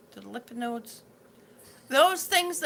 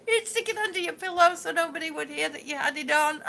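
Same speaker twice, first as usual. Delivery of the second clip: laughing; 3 semitones higher, 4 dB louder than usual. Real, not acted. Laughs while recalling radios.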